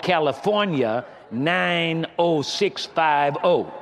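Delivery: very slow, deliberate reading out; measured, drawn-out formal read-out; letter sign-off read aloud. Acted. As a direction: spell out the address for all to note, unhurried.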